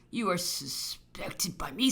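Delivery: slow, restrained accusation; measured accusation. Acted. Governor telling the officer he is suspected, slow and restrained. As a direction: state the suspicion slowly, held back.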